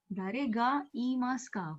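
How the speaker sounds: slow, careful "Dare ga iimasu ka?"; teacher repeating a question slowly; slow model reading. Shown as a demonstration. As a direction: pronounce each word clearly for the class. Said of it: "teacher modelling the question".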